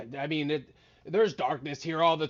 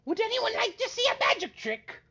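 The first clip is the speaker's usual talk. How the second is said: eager wizard. Acted. Wizard offers trick.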